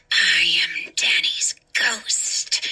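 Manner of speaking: low, slow, eerie whisper; ghostly whisper. Acted. The ghost announcing himself to Hannah, slow low whisper. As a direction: breathe it out like a spirit. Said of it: "he declared".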